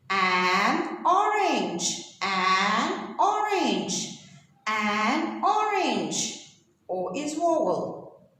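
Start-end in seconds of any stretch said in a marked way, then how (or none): 0.1-6.4 "an orange" said slowly, word by word; slow model reading. Shown as a demonstration. Teacher slowly models "an orange" for students to repeat. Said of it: "So we read it like this".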